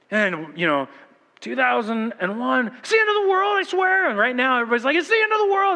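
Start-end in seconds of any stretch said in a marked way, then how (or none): 2.8-4.1 high mock-alarmed cry; mock panic. Mocking doomsday predictors. 5.0-5.7 high mock-alarmed cry; mock panic. Everybody's like.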